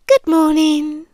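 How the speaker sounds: sudden bright "Good morning" to make you jump; a playful surprise hello; startling greeting. Retold or imitated. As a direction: pop out a cheery "Good morning". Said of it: "and you jump".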